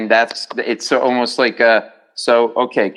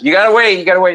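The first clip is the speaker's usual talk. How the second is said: higher, mock-curt repeated order; curt brush-off; 5 semitones higher, 4 dB louder, faster than usual. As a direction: brush the patient off, imitating the nurse. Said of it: "She goes".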